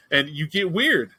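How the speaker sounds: drawn out slowly, falling on weird; slow, deadpan "weird"; slow emphasis. Shown as a demonstration. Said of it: "repeated for emphasis".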